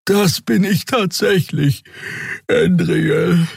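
high, slow, sleepy creature voice; tired Xea. A narrator's reading. Xea answers the captain, slow and sleepy. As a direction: draw it out slowly, half yawning. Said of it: "zu einem Gähnen auf".

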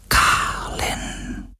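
breathy ghostly whisper of the name; barely a breath, slow and drawn out. A narrator's reading. The shadow whispering Garland's name, eerie hush. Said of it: "flüsterte er".

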